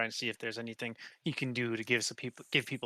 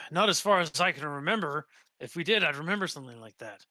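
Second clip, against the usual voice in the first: lightly voiced sailor, a little louder and higher; captive sailor; 4 semitones higher, 5 dB louder than usual. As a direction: play a sailor answering a question, lightly voiced. Game master voices the captive sailor.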